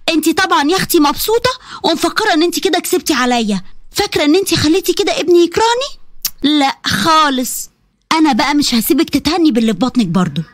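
put-on sneering old woman, dragging out لا خالص; a touch of venomous spite; spiteful mother-in-law. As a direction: vow revenge with contempt. Mother-in-law vowing revenge.

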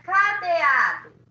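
loud, stretched call of cadeado; calling the word. Shown as a demonstration. Teacher prompting Luiz to call the word, calling out. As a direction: call cadeado out as a model to copy. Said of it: "Chama pra mim a palavra".

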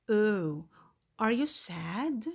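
a gentle, drawn-out sympathetic oh; mock sad. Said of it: "acting a sad emoji face".

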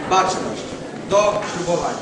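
loud parade-ground call; shouted command. Real, not acted. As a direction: give the order to stand at attention. Ceremony command to attention. (głośna komenda)

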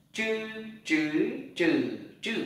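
"Chữ" with curled tongue, stepped through high, rising, dipping, falling tones; retroflex zh through four tones. Shown as a demonstration. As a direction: curl the tongue on each "chữ", drilling Mandarin tones. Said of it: "Chữ Z H này". (đọc "chữ" cuộn lưỡi, qua bốn thanh điệu)

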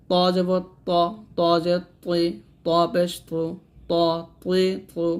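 "ত" as a heavy, emphatic t from the tongue tip; thick taw. Shown as a demonstration. Teacher drilling taw for learners, pronounced thick. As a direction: make "ত তি তু" thick, unlike a light ta. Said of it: "মোটাভাবে আদায় করতে হবে".

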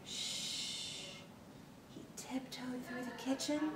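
hushed unvoiced whisper. A narrator's reading. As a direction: whisper like sneaking past. Tiptoeing sneaking.

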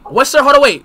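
real startled shout of hold on; excited high shout. Real, not acted. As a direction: yelp it out in sudden alarm. Startled, pressing for answer.

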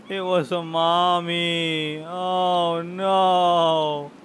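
drawn-out, wailing lament; mock crying. Player upset over killing a mommy turtle, mock crying. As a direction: drag the words out mournfully. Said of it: "I'm crying".

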